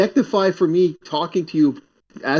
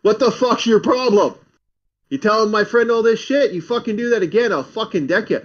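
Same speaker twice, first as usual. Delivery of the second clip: mock threat, pitched up; confrontational muscle guy; 6 semitones higher than usual. Muscle-guy friend threatens landlady's son in bar, mock aggressive. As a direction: imitate a big friend picking a fight. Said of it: "my friend's a big muscle guy".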